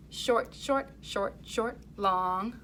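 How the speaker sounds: four clipped beats, then a held long; short short short short long. Shown as a demonstration. Teacher modelling the second rhythm line. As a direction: hold the last one long. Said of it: "try that line one more time".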